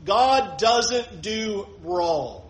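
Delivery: very slow, each word of God doesn't do wrong weighed; drawn-out solemn restatement; slow solemn repeat. Shown as a demonstration. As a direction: let it land after the list. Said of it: "That's where Elihu sets the table".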